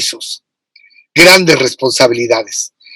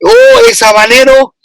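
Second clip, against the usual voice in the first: waitress amazed at the pepper, raised high voice; imitating the waitress; 6 semitones higher, slower than usual. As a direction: mimic the waitress gasping at the habanero. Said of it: "y hasta la mesera dice".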